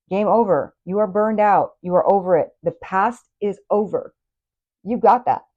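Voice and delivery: real excited yell. Real, not acted. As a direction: shout it out to pump them up. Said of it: "I didn't mean to yell at you earlier".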